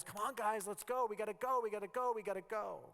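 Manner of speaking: mildly hammed-up rush, repeating like a nag; mock impatient yell. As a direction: pretend to chivvy dawdling friends. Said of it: "he's never screaming at the disciples".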